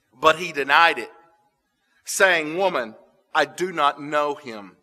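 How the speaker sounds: steady, solemn Bible reading; scripture reading. Acted. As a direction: tell the courtyard scene gravely. Reads the denial passage.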